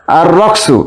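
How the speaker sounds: "আর রকসু" with a doubled R, no L; silent lam. Shown as a demonstration. Teacher showing students the silent lam in "আর রকসু". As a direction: run the article into the R of "আর রকসু". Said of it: "লাম উচ্চারণ হচ্ছে না".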